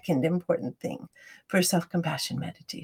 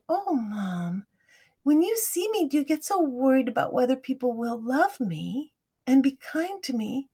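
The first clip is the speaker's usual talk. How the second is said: tender question; 3 semitones higher, 4 dB quieter than usual. Retold or imitated. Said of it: "And I said".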